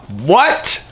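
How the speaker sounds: high, breathless laughing disbelief. Real, not acted. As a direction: laugh it out, can't believe it.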